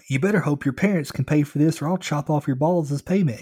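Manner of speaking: screamed threat. A narrator's reading. Driver demands payment for damage, screaming threats. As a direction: threaten the kid at a near scream. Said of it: "he screamed".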